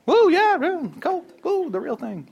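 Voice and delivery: whooping high yell; high, excited woo; excited cheer. Real, not acted. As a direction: cheer like a fan in the stands. Cheering for Coke.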